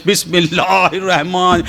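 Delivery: slow, drawn-out tajweed recitation; careful recitation. Retold or imitated. Disciples reciting together, slow and careful. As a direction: stretch each word like careful Quran reading. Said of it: "تجوید کے ساتھ".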